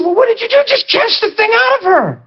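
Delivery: high, brisk retort; an eager young believer; matter-of-fact. Retold or imitated. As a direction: brush it off. His own quick reply.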